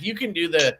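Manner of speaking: lightly voiced mocking impression of Hoback; a hint of a prissy pitchman, barely put on; bitch voice. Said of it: "giving him a bitch voice like Tri-State".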